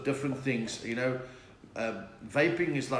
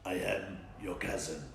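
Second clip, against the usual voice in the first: low, quieter movie-villain voice; Darth Vader; 7 semitones lower, 7 dB quieter than usual. Acted. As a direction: drop it low and hushed, like a masked villain. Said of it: "picture of Darth Vader and it just says".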